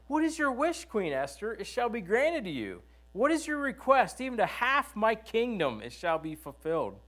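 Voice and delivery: a king offering half his kingdom; generous king. Acted. Reading king's offer in scripture.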